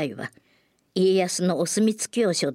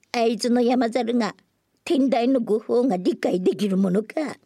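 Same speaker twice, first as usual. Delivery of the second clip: loud, higher mocking taunt; loud jeering; 5 semitones higher than usual. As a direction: jeer so the monk overhears. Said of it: "でかい声でほざくんだし". (聞こえよがしの大声の嘲り)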